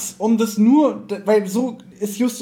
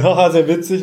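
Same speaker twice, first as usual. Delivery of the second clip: mock laughing; 5 dB louder than usual. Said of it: "weil die lachen doch beide".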